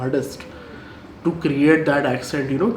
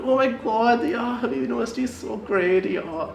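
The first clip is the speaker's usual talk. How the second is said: put-on much higher, gushing Westernised burger accent; mock burger accent; 9 semitones higher, much slower than usual. Student mocking Habib burgers in a high gushing burger accent. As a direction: send up the elite kids' burger accent, squealing high. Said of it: "I have such a burger accent".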